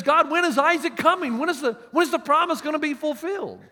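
Abraham voiced as a loud pleading question. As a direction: ask God when the promise comes. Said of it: "finally Abraham says".

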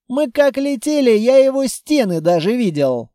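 a touch of outrage; indignant protest. A narrator's reading. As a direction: object as if it were absurd. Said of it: "возмутился Петрович".

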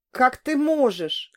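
suddenly frightened. A narrator's reading. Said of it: "вдруг испугалась я".

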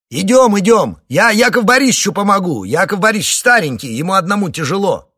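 громко и высоко, с издёвкой; отзовись напоказ, насмехаясь; насмешливо. A narrator's reading. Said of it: "насмешливо отозвался Борухов". (насмешливый громкий ответ)

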